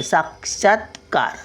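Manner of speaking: साक्षात्कार with a stopped t before कार; t sound shown. Shown as a demonstration. Teacher pointing out the t, साक्षात्कार in clear syllables. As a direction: close क्षात on a t, then कार. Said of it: "तचा उच्चार तो आहे".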